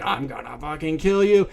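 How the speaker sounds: restrained retold scream; mock scream. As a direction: act out screaming without real volume. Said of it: "is just screaming".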